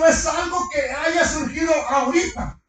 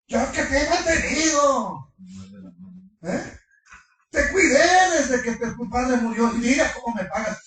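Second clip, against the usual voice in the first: indignant reproach. Retold or imitated. Acted scolding of Lot.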